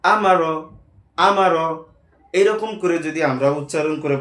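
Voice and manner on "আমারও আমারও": আমারও said louder as one blended word; teacher modelling আমারও, louder; blended reading. Shown as a demonstration. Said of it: "উচ্চারণটা কি হয়?".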